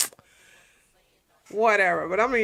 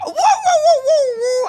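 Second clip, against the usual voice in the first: much higher, shocked dog voice with a laugh; voicing the dog; 5 dB louder, slower than usual. Owner voices her dog reacting to the gossip, high and shocked. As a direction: squeal like the dog gasping at gossip. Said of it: "And she'll go".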